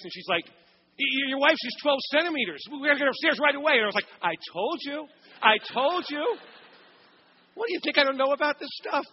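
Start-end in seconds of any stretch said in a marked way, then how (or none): 0.4-3.7 flustered nurse. Retold or imitated. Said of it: "deer in the headlights". 4.2-9.1 higher, smug "I told you"; gloating. Retold or imitated. Husband gloats he was right.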